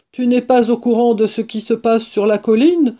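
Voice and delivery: mild excitement. Acted. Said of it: "tout excité".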